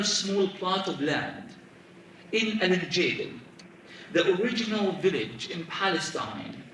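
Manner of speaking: measured story narration with long pauses between phrases; literary reading aloud. A narrator's reading. Author reading a book excerpt to an audience, measured narration. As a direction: read it out solemnly, drawing out key phrases.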